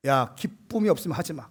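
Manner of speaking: stern retold reprimand, moderately firm; firmer rebuke. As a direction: lean harder into telling off the team. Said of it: "요 뉘앙스 조금 더 세게".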